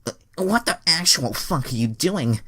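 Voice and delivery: high, loud, incredulous woman's voice; indignant Andrea. Acted. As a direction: shriek the line in disbelief. Reading Andrea's angry line.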